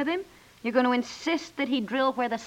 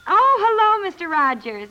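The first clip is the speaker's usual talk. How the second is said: bright greeting; 9 semitones higher, 9 dB louder than usual. Acted. Cheerful phone greeting.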